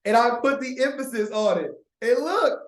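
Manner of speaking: high, loud, giddy show-off; y'all watch me, loud and delighted; gleeful excitement. Real, not acted. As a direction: gloat over the win, bubbling up.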